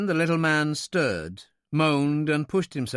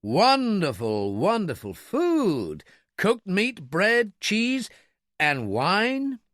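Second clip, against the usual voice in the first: slow, savouring awe, rising higher through the list; reverent; 7 semitones higher, much slower than usual. A narrator's reading. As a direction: relish each item with rapt wonder. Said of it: "Miller said reverently".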